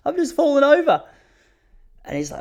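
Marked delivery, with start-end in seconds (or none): 0.0-1.0 put-on high, sweet old-lady voice; much higher auntie impression, matter-of-fact. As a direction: play the cheerfully oblivious aunt. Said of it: "She's like".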